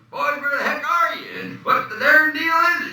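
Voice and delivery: very high, loud Kentucky holler; hammed-up Southern accent. Actor delivering film lines copied from his uncle's tape, hammed-up Southern accent. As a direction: call out like a country hick, Southern and shrieky. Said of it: "I just listened to the tape recorder".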